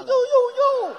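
high, loud string of yelps; mock alarm. Son reacting to his mother's picture book, mock alarm. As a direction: yelp in exaggerated dismay.

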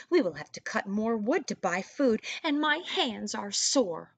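mild hammed-up whine; whining. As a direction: drag out the sore hands. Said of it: "whined the second son".

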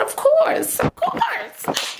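hammed-up high-pitched "naturally"; sarcastic resignation. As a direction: squeal it in exasperated disbelief. Mock resignation at delayed flight.

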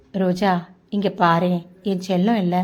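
gentle, slightly hushed pleading; tender coaxing. Acted. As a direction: coax them lovingly, voice eased down. Boyfriend coaxes his reluctant girlfriend.

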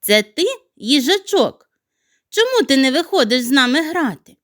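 a tiny playful snowflake calling; light snowflake voice; snowflake's voice. Acted. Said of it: "і сказала".

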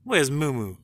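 loud call across the yard; loud searching call. Real, not acted. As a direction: shout for the cat. Calling out for cat.

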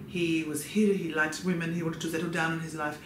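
rough imitation of a muddled European accent; bad Spanish-ish accent. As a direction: attempt a Spanish-meets-Swiss accent, badly. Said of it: "I don't know what accent".

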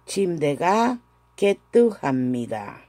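slow, syllable by syllable Korean; careful Korean answer. Shown as a demonstration. Teacher models Chimdega ketuhamida for her class, slow and careful. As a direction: Chimdega ketuhamida spelled out slowly, ket-tu-ha-mi-da. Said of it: "la respuesta sería".

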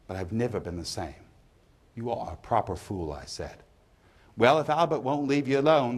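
lightly voiced pub gossip; poem reading. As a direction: read it as a pub storyteller, lightly acted. Reads the pub monologue from the poem.

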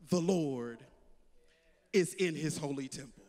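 deep, low, solemn voice of God; voice of the Lord. Acted. The Lord speaking to his people, deep and solemn. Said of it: "the word of the Lord comes to us and says".

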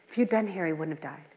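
quiet, falling reproach fading away; grieving reproach. Retold or imitated. Martha softly telling Jesus her brother would have lived. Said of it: "That's how Martha s-, introduced her".

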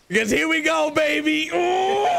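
high excited whoop; whooping as it takes off; excited yelling. Real, not acted. Launching off the ramp.

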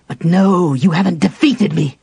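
high, loud defiance; defiant cry. A narrator's reading. Raistlin to the Dark Queen, loud defiant cry. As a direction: fling it at the unseen queen.

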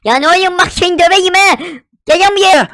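joking menace, come here; mock threat. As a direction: come at him like a bully. Threatening friend in game.

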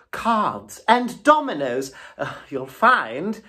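eager toad bragging about his supplies; boastful Toad. A narrator's reading. Toad showing off the cart.

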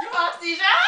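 put-on Russian accent. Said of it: "Why do you have Russian accent".

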